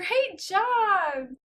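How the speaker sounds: very loud, high rising pitch, "job" drawn out. Speaking to a baby, as an example of praise: high, rising pitch. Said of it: "that was a higher pitch. You kind of heard it go up".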